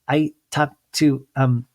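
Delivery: housewife gossiping to another; mock Lisa voice. Imitating Lisa Barlow.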